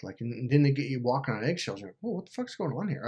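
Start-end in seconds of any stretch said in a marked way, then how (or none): 2.0-3.1 high, hushed wary reaction; retold alarm. Walking on eggshells around a narcissist, hushed mock alarm. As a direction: tiptoe through it, softly alarmed.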